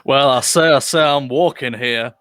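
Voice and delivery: lightly voiced Southern cartoon bluster; a hint of botched American accent; Foghorn Leghorn. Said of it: "ends up being Foghorn Leghorn".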